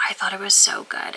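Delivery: soft breathy whisper of delight. Real, not acted. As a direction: whisper it dreamily. Whispered repeat.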